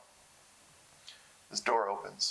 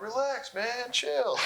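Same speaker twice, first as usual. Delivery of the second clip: mock chill Kevin; 12 semitones higher, much slower than usual. Kevin answers manager, voiced.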